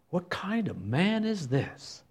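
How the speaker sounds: soft, slow wondering question; hushed awe. Acted. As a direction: marvel quietly. Disciples voiced in awe.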